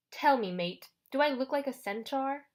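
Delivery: put-on lightly British-accented ferryman; strange British-like accent. Charon challenges the boy over his name, lightly British accent. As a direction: put on a hint of a foreign-tinged British accent. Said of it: "British maybe".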